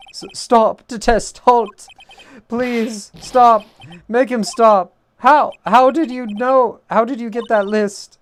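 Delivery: high, loud, panicky robot voice. Acted. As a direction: shriek like a malfunctioning robot. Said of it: "he does kinda sound like a robot the way I do it".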